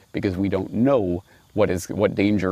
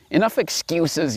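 mock yell; 9 semitones higher than usual. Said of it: "yelled the wolf".

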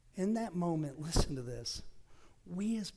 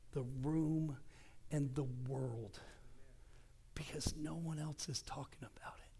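hushed preaching. Acted. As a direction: draw them in with a whisper. Preaching softly.

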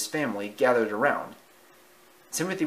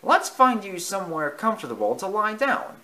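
mouse voice; 9 semitones higher, 3 dB louder than usual. Acted. Mouse speaking to Dumbo.

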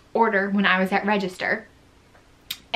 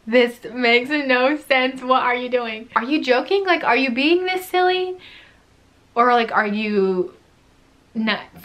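incredulous; 3 semitones higher than usual. Retold or imitated. Imagined thoughts at customers.

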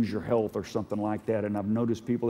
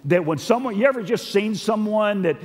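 emphatic scripture exposition in a raised voice; forceful preaching; 5 semitones higher, 4 dB louder than usual. Real, not acted. Preacher explaining God who relents, forceful. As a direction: drive the verse home to the room.

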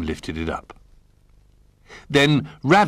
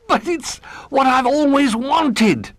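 put-on high, slow, rapturous child voice; can hardly believe his luck; delighted cry; slower than usual. A narrator's reading. Little Bear cries out in joy at his present. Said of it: "cried Little Bear".

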